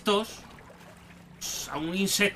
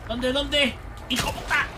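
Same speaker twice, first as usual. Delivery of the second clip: battle shout; slower than usual. Real, not acted. Shooting enemy.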